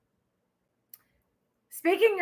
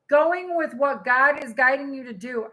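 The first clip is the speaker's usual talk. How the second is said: ordinary delivery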